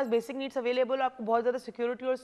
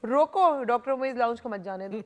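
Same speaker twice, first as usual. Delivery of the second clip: viewers' playful plea; 4 dB louder than usual. Pretend. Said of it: "अब सारे viewer बोल रहे होंगे".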